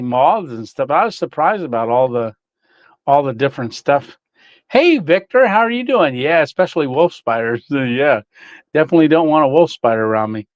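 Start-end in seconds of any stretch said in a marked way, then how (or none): 4.7-6.1 high bright sing-song hello; cheery greeting. Real, not acted. Greeting a viewer.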